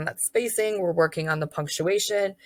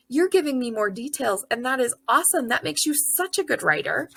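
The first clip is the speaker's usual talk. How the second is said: encouraging, a touch higher; mild teacher praise; 6 semitones higher than usual. Retold or imitated. Teacher praising a kindergartener's story, lightly encouraging. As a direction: praise the child warmly. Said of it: "I'd be like".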